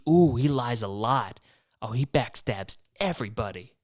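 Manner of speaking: imitating a gossipy viewer; mock-gasp at each betrayal; lightly voiced gossiping fan; viewer commentary. Mocking viewers judging politicians.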